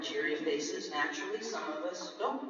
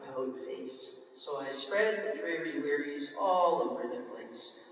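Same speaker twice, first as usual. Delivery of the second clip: glum pout fish. Acted. Fish replies with pout refrain.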